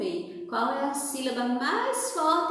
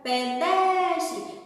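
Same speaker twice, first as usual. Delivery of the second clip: calling the word out, syllables stretched; chamado demonstrativo. Shown as a demonstration. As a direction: call it as if to someone far ahead. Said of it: "você vai gritar, chamar aquela palavra". (chamando a palavra de longe)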